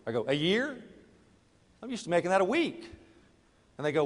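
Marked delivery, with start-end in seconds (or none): 0.3-2.9 a year? said in mock shock; incredulous surprise. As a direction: pitch jumps up, disbelieving. Job pays forty thousand a year.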